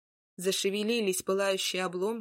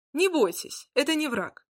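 higher, louder reassuring call; exclaiming; 6 semitones higher, 3 dB louder than usual. Acted. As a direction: call out to calm the crowd. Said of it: "воскликнул Добромир".

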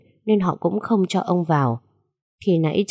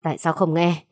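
bitter demand. Acted. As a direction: demand an answer through clenched anger. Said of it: "gằn giọng đầy phẫn nộ".

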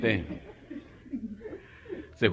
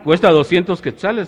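high, loud shopgirl falsetto; high shop girl voice; 7 semitones higher, 9 dB louder than usual. Acted. Comedian voicing the pharmacy girl quoting the price, high and loud. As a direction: answer sweetly up high like a shopgirl.

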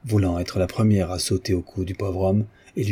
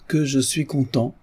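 joyful exclaim; 6 semitones higher than usual. Acted. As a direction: let the repeat burst out. Notary repeats his joy.

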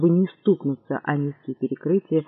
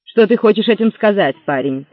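menacing; 2 semitones higher, 5 dB louder than usual. Acted. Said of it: "угрожающе вымолвило лицо".

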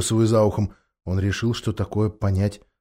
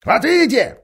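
smug ape voice; 13 semitones higher, 5 dB louder than usual. Acted. The ape gloats.

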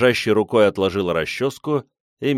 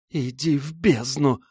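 hissed curse; 7 semitones higher, slower than usual. A narrator's reading. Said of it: "прошипела женщина в ответ".

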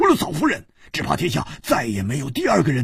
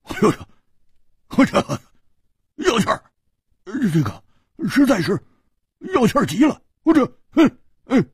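giggling; 11 semitones higher, faster than usual. Acted. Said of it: "咯咯地笑着说".

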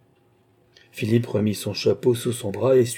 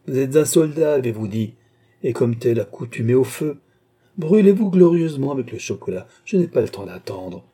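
lightly voiced queen, lively and commanding; teasing queen, brisk; 4 semitones higher, 4 dB louder than usual. Queen teasing the soldier over hot chocolate, brisk. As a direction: order him playfully, voice rising.

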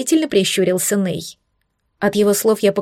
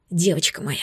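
softer, murmured close; tender whisper; 3 semitones lower, 5 dB quieter than usual. A narrator's reading. Lover whispering to his girl, tender murmur. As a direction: murmur it lovingly. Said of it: "шептал он".

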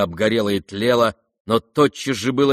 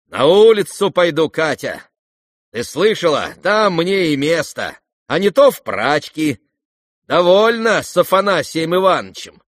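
bitter farewell; 6 semitones higher, 6 dB louder than usual. Acted.

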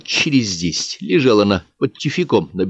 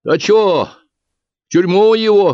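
higher, louder call from the crowd; a peasant yelling from the back; shouted out; 12 semitones higher, 6 dB louder, slower than usual. Acted. A man in the crowd shouts at the bookkeeper, loud. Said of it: "выкрикнул какой-то мужик".

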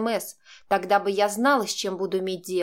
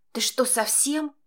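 higher, drawn-out shocked challenge; indignant protest; 5 semitones higher, slower than usual. A narrator's reading. Girl pushing Max away, indignant protest. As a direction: protest in slow, raised disbelief.

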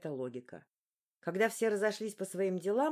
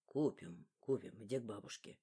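1 distracted father; 9 semitones lower, 7 dB quieter than usual. A narrator's reading.

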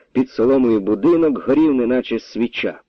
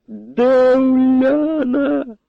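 wild bark; much slower than usual. A narrator's reading. The captain roars at the colonel for his daughter, wild bark. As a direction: bellow it at the colonel, drawn out. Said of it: "дико гаркнув сотник".

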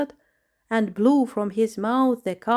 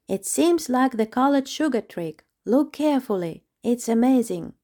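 amazed chipmunk; 5 semitones higher than usual. Acted. Chipmunk Raja answers.

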